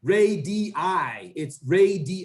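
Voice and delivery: "radii" split as RAY-dee-EYE; syllable by syllable. Shown as a demonstration. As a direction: model "radii" in three separate syllables. Teacher models corrected plural.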